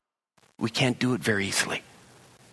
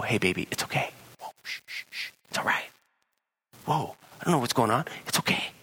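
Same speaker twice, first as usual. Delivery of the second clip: soothing partner; faster than usual. Acted.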